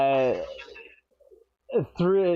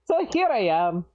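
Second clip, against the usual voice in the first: lightly put-on Scottish dwarf; a hint of Scottish dwarf accent; 3 semitones higher than usual. Dwarf ends his life story, light Scottish accent. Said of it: "I don't know why I'm doing this accent".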